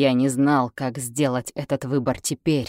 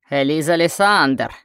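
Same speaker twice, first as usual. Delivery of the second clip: shouted name; 2 semitones higher, 5 dB louder than usual. Acted. Enemy calls out her name.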